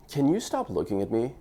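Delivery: cool, deadpan cocky tease. Shown as a demonstration. Guy teasing a girl at a bar, cocky. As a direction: tease her like you own the room. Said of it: "number six is the cocky one".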